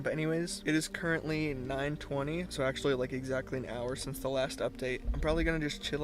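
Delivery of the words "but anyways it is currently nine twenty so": speech slurred by retainers in mouth; talking with retainers. Real, not acted. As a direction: talk around retainers in your mouth. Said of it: "I'm talking weird 'cause I have my retainers in".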